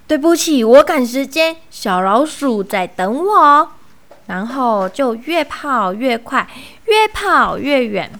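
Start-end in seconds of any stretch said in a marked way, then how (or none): 0.1-3.7 louder, impatient apology; hurried brush-off. Acted. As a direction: push past while excusing yourself. Mouse brushes fox off in a hurry.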